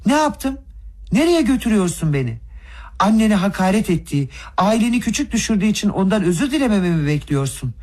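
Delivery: yüksek perdeden öfkeyle hesap sor; tiz, isyankâr kavga tonu; öfkeli çıkış. A narrator's reading. (öfkeli, tiz bir sesle isyan)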